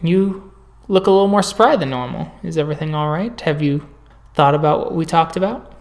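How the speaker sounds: soft, measured clinician voice; quiet professional check-in; calm doctor in session. Acted. Doctor Appleton greeting her patient, soft and measured.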